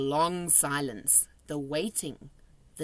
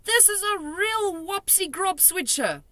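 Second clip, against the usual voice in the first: emphatic; 12 semitones higher, 3 dB louder than usual. A narrator's reading. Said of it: "cried the B F G".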